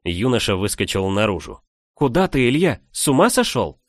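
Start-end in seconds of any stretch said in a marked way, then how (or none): 1.9-3.8 shouting after him. A narrator's reading. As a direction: call after him in alarm. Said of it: "вслед ему крикнула девушка".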